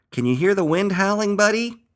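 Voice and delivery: high, loud cry over a storm; urgent high-pitched shout. A narrator's reading. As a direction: call out over howling wind. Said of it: "cried Earl".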